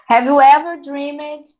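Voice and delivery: ordinary delivery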